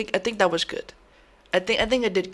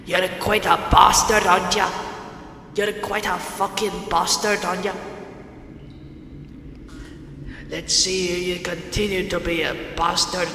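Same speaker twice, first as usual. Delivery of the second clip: put-on British accent. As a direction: play a British torturer passing judgement. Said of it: "I'm gonna do a British voice".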